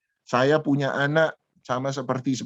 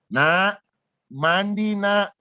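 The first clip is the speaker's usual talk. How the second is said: higher retold parent's call; re-enacted holler, pitched up a little; slightly raised voice; 4 semitones higher, much slower than usual. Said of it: "Suara agak lebih tinggi".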